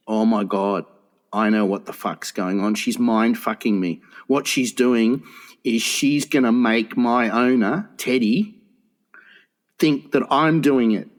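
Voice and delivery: a low realizing dog's voice, lightly voiced; dog's inner voice. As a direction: play the dog suddenly working it out, low. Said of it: "And then the dog goes".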